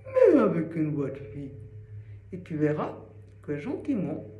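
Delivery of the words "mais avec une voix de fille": put-on girl voice. Shown as a demonstration. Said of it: "fais-le avec une voix de fille".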